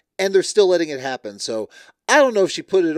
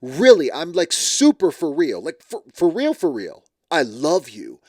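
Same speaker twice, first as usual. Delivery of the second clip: overselling sincerity. Retold or imitated. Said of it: "So, like, trying to sell it".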